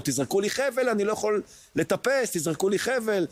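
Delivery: קריאה גבוהה ונואשת למעלה; retold shout for help. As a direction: call up high and desperate for a rope. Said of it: "שצעקתי לו". (צועק גבוה לחייל למעלה לזרוק חבל)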